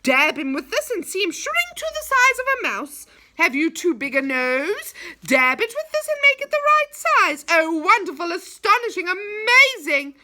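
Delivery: loud, high market-goblin shout; yelling hawker. A narrator's reading. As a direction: bellow out the sales pitch at the top of your voice. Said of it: "He was yelling on the top of his voice".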